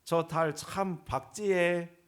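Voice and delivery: slow Gyeongsang dialect musing; lightly voiced wife admiring the moon. Pastor mimics a Gyeongsang wife admiring the moon, in Gyeongsang dialect. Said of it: "경상도 아내는요".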